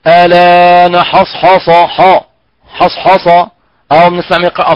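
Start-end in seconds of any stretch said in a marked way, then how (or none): 0.1-3.3 mock heavy ح in حصحص, slow; imitating wrong reading. Teacher imitating a wrong reciter, mocking. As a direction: mimic a reciter who thickens حصحص. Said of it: "فنسمع من يقرأ".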